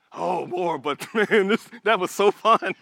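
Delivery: mock-guilty confession with a laugh; sheepish relapse. Sinner admitting to God it was fun, sheepish laugh.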